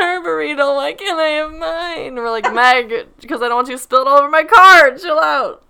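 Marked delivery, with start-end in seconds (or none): 2.5-5.6 higher, louder fast scolding. Retold or imitated. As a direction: tell her off from the driver's seat. Friends scolding her in car.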